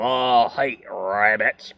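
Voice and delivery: slow whispered growl; hammed-up whispered threat; hissing whisper. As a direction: whisper it with menace. Yosemite Sam line.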